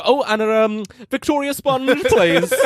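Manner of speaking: high, hesitant mock-panicked order; mild comic panic. Panicked customer covering his tracks with the barista, mock fluster. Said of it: "So I panicked a bit".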